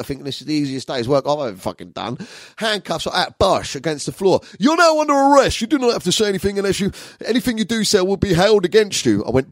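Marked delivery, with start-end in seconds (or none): 4.6-9.2 loud, high, forceful recital of rights; hammed-up policeman shouting the caution; arresting officer. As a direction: rattle off the caution at full volume.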